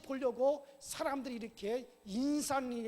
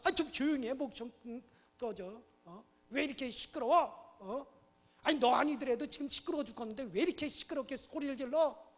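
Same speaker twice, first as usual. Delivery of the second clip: irritated, raised-voice telling-off; scolding; 3 semitones higher, 4 dB louder than usual. Acted. Man behind raises a fist at noisy beggar, scolding. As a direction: snap at someone to shut up.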